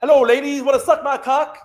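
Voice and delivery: lightly voiced cocky strongman; Johnny Bravo swagger. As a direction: ham up a cartoon hunk hitting on girls. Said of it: "He walks in, Johnny Bravo".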